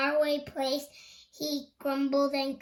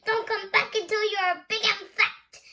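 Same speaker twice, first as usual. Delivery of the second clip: higher, louder troll shout; 6 semitones higher, 4 dB louder than usual. Acted. Troll warns the middle goat away, shouting. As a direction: bellow the warning like a troll. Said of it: "So he shouted".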